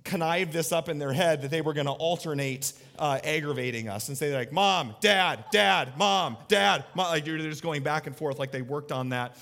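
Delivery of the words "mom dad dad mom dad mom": put-on louder sing-song kid calls; mock toddler calling; calling child. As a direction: alternate the calls like a teasing kid. Kids alternating calling parents.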